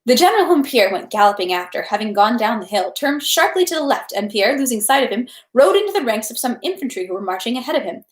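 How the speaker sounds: steady audiobook narration; story narration. Acted. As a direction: read the novel evenly aloud. Reads the novel aloud.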